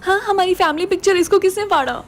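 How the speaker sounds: high-pitched, startled question; shocked dismay. Acted. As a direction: demand an answer in upset surprise. Reacts to torn family picture. (हैरानी से ऊँची आवाज़ में)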